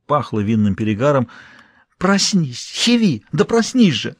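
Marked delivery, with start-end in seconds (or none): 2.0-4.2 high, urgent calls to wake him. A narrator's reading. Maid shaking the drunk prince awake, urgent high calls. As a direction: shake him awake with your voice, high and pressing. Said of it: "начала его тормошить служанка".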